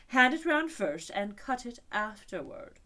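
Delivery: patient instruction; unicorn instructs. A narrator's reading. Unicorn telling Alice how to cut, slow.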